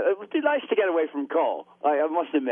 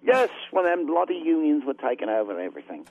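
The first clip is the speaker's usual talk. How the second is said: put-on a lightly done British accent; weak put-on British accent; fake British accent. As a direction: play a Thatcher-loving Brit, half-hearted. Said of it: "can't do a fake British accent".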